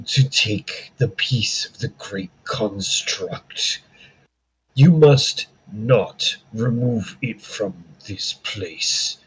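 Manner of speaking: slow, ancient tree voice fading to whispers; talking tree. Acted. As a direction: speak like an old guardian tree, slowly. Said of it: "So, what you're hearing is".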